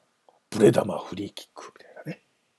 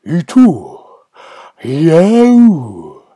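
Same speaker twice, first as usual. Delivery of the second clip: stadium DJ impression; 5 semitones higher, 12 dB louder, much slower than usual. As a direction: hype the crowd, exploding on the player's name. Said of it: "観客を煽りたい時のスタジアムディージェー". (観客を煽るスタジアムDJのものまね)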